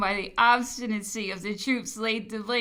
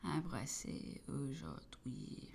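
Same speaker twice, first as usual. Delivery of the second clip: moved quiet recitation; 2 semitones lower, 9 dB quieter than usual. A narrator's reading. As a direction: read the lines softly, overcome. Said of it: "He was greatly affected".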